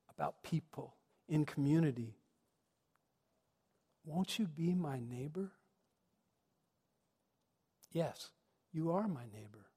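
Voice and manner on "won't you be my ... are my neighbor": soft, unhurried question and answer; tender invitation. Acted. Preacher closing the reflection with a neighborly invitation, tender. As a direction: offer it gently, with a long pause before answering.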